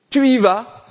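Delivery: laughing, upbeat go-on; laughing urge. Acted. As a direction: push him on with a laugh. God urging Elijah, laughing.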